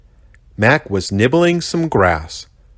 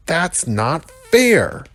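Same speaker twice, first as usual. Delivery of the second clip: snorted; 9 semitones higher, much slower than usual. A narrator's reading. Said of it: "the rhino snorted".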